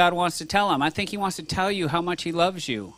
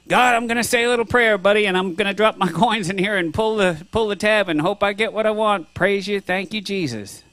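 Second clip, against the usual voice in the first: mock vending-machine prayer; 4 semitones higher than usual. Preacher mocking prayers to God as a genie, hammed-up quick prayer. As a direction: rattle it off like feeding coins to a machine. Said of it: "sometimes I treat God like a genie".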